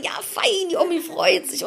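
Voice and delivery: high doting praise to a dog; sweet high dog praise; praising a dog. Retold or imitated. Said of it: "ich sag".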